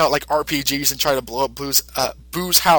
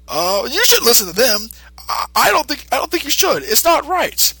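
timid advice; 10 semitones higher than usual. Retold or imitated. Satan voiced in dialogue.

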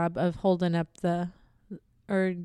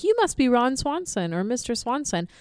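higher-pitched, mildly excited greeting; peppy; 4 semitones higher than usual. Retold or imitated. Parents greeting Mister Swanson at the door, peppy imitation. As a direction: imitate an eager, peppy welcome. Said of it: "they're both just so peppy".

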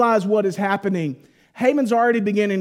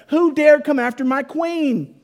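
acted royal fury, higher and louder; loud, high-pitched mock-regal indignation; livid king; 6 semitones higher, 5 dB louder than usual. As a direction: play a king outraged on his queen's behalf. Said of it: "he is livid".

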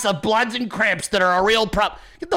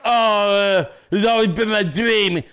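raised, louder sneering voice of a CIA recruit; mocking quote; 3 semitones higher, 3 dB louder, slower than usual. Host mocks an eager CIA recruit, sneering mock voice. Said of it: "You're like".

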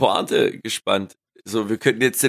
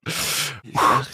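high, breathless laughter; helpless laughing, near tears; laughing while crying; much slower than usual. Real, not acted. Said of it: "Ich weine".

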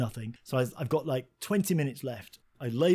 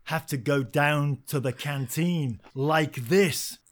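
panicked inner thought; 7 dB louder, slower than usual. Retold or imitated. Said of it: "And I'm thinking".

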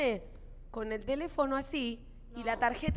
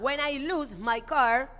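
slow broken English; much slower than usual. Retold or imitated. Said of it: "yo le habré dicho algo así como".

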